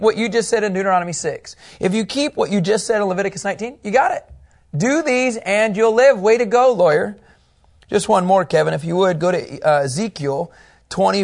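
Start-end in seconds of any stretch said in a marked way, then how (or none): 3.8-7.2 mock congratulations.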